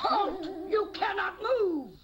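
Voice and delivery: high, loud commanding bark; witch's shout. Acted. Witch shouting at the husband in her garden, loud and high. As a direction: stop the intruder cold.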